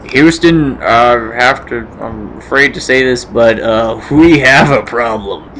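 lightly acted astronaut reporting to base, low register; radio role-play. Role-plays astronaut and mission control.

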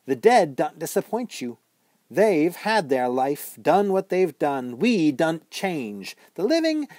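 put-on high, loud ghost girl scolding; a sharp young witch needling the boy. A narrator's reading. Ghost girl chiding Bod for running away, high mocking voice.

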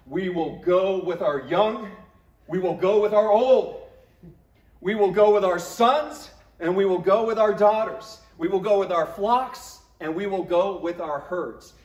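royal, prestige movie-prophet voice; Charlton Heston voice. Retold or imitated. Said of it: "I always want to say it in the Charlton Heston voice".

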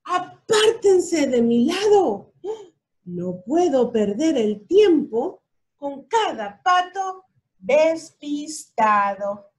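loud, pushy truck voice barking orders; bossy truck. Acted. The big truck shouting at the animals to move. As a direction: shove everyone aside, rude and loud.

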